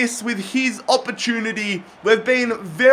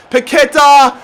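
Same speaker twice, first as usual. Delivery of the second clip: excited shout; 6 semitones higher, 8 dB louder than usual. Real, not acted. Dangerous attack.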